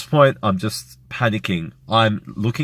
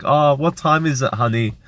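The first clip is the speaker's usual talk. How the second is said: higher-pitched, lightly voiced mum; unaware mum; 5 semitones higher than usual. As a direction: imitate an oblivious mum asking from bed. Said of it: "she has no idea what's going on".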